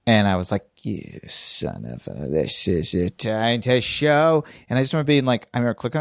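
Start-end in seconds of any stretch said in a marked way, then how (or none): 0.8-4.4 seething mutter. Retold or imitated. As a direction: grumble it under your breath, slowly. Her seething reaction to the message.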